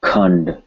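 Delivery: "Khand", tongue tip on the bump behind the teeth for the nd; tongue-behind-ridge N. Shown as a demonstration. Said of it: "tip of the tongue touching right behind the bump".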